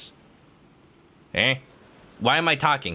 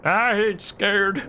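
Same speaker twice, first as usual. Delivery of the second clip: put-on Australian accent; 5 semitones higher, much slower than usual. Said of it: "my Australian accent".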